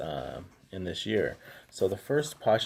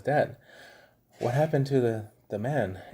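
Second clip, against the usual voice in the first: imitating curious son; 4 semitones higher than usual. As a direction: voice the puzzled little son. Son asks about movie.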